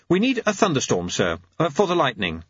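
high, nervous clockmaker; high-voiced anxious inventor; Jeremy. Jeremy answers in character.

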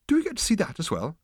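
high-pitched anxious question; nervous. A narrator's reading. Arthur asks about Judgment Day, nervously. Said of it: "asked Arthur nervously".

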